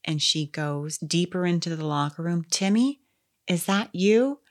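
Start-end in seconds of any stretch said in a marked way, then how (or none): 2.5-4.4 put-on Southern accent. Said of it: "you make her sound like she's Southern".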